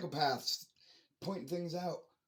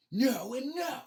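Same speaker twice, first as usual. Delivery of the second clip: emphatic denial; 11 semitones higher, 6 dB louder, slower than usual. Real, not acted. Emphatic self-answer.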